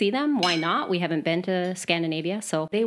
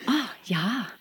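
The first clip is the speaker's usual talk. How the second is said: put-on Yooper accent; 3 semitones higher, 3 dB quieter than usual. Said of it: "I'm there and I say that".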